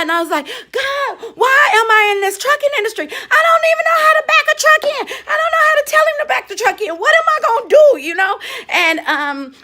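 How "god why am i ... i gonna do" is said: high, fast, tearful plea; high fast crying plea to God; crying prayer. Retold or imitated. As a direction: wail it out through tears. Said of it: "And I just cried".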